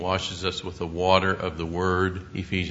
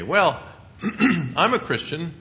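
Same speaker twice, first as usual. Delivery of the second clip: higher, louder, smug churchgoer voice; mock self-assured churchgoer; 10 semitones higher, 5 dB louder than usual. Preacher mimics a churchgoer claiming faith, higher and smug. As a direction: play the proud nominal believer. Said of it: "You've heard some say".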